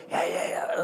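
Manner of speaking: imitated laryngectomy voice noise; imitated patient's voice. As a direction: mimic how a patient without a larynx speaks. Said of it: "how they speak today".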